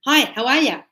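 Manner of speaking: casual Australian "how are ya", words run together; light Australian accent on "Hi, how are ya?"; relaxed Aussie "ya" for "you"; Australian greeting. Shown as a demonstration. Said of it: "But in Australia".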